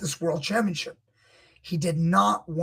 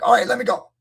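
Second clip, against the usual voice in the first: frantic tapper; 5 semitones higher, 7 dB louder, much faster than usual. Retold or imitated. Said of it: "a little more frantic".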